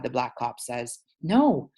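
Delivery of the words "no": high, slow, loud outcry; slow high pleading shout; upset protest. Acted. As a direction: cry out to defend your dad. Boy protests to police.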